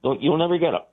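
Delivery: a hint of a laid-back lawman; casual sheriff. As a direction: toss it off like a sleepy small-town sheriff. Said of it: "He goes".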